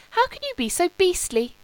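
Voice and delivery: high, playfully scolding; mock reproach. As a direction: tease the purser as if he commands the waves. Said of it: "conveying the flattering suggestion".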